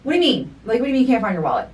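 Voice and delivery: high, fast rush of disbelief; exasperated questioning. Retold or imitated. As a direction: fire the questions at him, fast. Retold exasperated questioning of husband.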